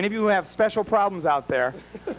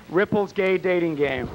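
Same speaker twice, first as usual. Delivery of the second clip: slow game-show title call; slower than usual. Shown as a demonstration. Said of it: "Let's hear you say".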